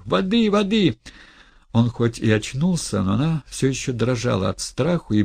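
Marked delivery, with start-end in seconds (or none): 0.1-1.0 high, loud cry for water; frightened cry. Acted. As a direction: call out in panic. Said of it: "испуганный крик".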